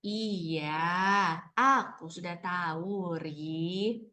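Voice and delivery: low, slow story reply. Shown as a demonstration. Teacher showing intonation coming down after an exclamation, low and slow. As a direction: bring the reading tone back down, unhurried. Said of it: "itu kita bisa turunin lagi intonasinya".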